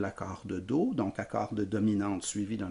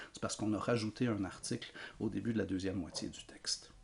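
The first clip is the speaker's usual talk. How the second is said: whisper; 2 semitones lower, 8 dB quieter, faster than usual. Real, not acted. Soft aside while summarizing.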